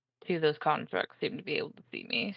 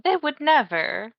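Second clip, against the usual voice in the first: cooing to a pet; 2 semitones higher, slower than usual. Acted.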